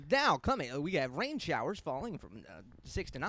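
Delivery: a hint of a small-town weatherman; news weather read. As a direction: read the forecast like a local newscaster. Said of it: "the local news channel will still be like".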